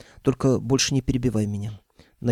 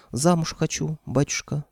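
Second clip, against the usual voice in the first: high, demure and flirty; coy and bashful; 5 semitones higher than usual. Acted. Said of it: "потупила глазки бесовка". (застенчиво-кокетливо)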